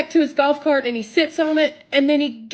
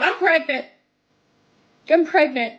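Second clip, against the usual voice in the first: blurted out; 5 semitones higher than usual. Retold or imitated. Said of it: "I just blurted it out".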